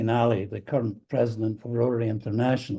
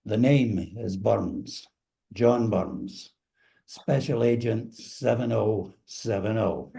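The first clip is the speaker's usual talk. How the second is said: slow, suave spy introduction; James Bond intro; slower than usual. Pretend. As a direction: deliver it like a cool secret agent. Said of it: "I'll do it here in this fashion".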